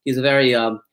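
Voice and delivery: put-on stiff, earnest German-accented interviewer; German reporter accent. German reporter questions actor at convention, German accent. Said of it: "this reporter asked me".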